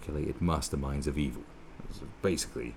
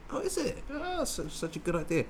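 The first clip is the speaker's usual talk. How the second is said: sarcastic. Retold or imitated. Sarcastic retort to the plan.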